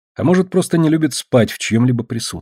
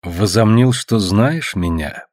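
процедила сквозь зубы; slower than usual. Acted. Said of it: "процедила я".

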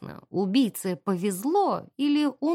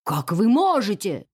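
louder, slow indignant protest; shocked indignation, a bit louder; indignant outburst; 2 semitones lower, 4 dB louder than usual. Acted. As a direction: protest the insult to the dead. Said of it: "вознегодовал".

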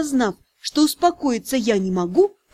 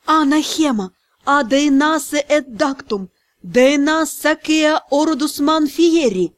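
vengeful incantation; slower than usual. Acted. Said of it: "мстительно добавила формулу катализатора".

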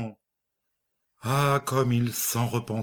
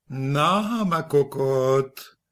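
tender voice; 4 semitones higher, much slower than usual. A narrator's reading. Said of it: "d'une voix attendrie".

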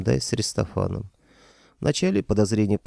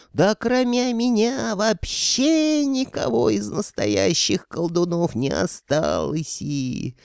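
choking with rage; 12 semitones higher, slower than usual. Acted. Insulted wizard choking with rage, shrill outburst. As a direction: sputter in fury.

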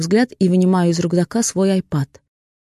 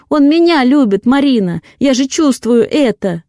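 tearful; 6 semitones higher, 7 dB louder than usual. Acted. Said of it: "глаза её вдруг наполняются слезами".

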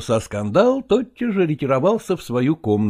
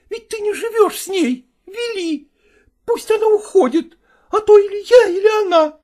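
much higher, pleading cry; tearful shout. Acted. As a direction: cry out through tears. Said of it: "со слезами на глазах ... закричала".

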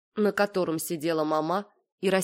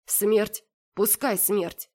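usual speaking voice

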